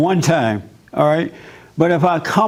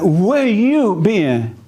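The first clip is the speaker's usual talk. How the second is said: mock angry wife; 4 semitones higher, much slower than usual. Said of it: "She's like".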